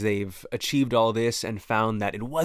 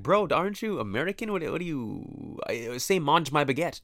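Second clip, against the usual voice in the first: higher-pitched mock incredulity; mock objection; 5 semitones higher than usual. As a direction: act out a baffled objector. Acts out an objector to French.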